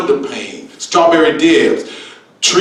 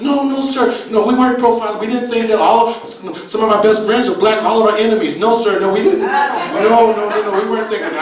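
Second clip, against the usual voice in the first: higher, hurried flustered denials; flustered lady; 5 semitones higher than usual. Retold or imitated. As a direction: babble excuses like a caught old lady. Voicing the flustered white lady.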